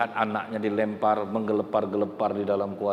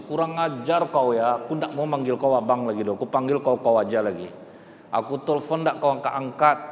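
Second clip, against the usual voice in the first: scolding wife; 3 semitones higher than usual. Acted. Wife furious at late husband.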